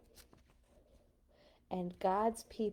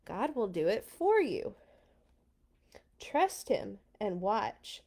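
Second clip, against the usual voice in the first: slow, even, confident; calm steady reassurance. Acted. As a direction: soothe the panicked crowd. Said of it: "Moses said".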